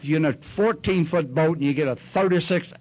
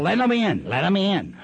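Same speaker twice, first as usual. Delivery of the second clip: retold yell; 6 semitones higher, 3 dB louder than usual. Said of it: "Inga's yelled".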